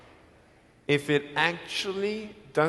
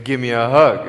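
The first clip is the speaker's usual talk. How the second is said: louder insistent Give me a hug; insistent repeat; 6 semitones lower, 7 dB louder than usual. Retold or imitated. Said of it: "I said".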